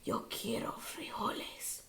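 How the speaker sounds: hushed, solemn declaration; somber voice. A narrator's reading. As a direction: say it gravely, like a grim leader. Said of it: "his most somber voice declared".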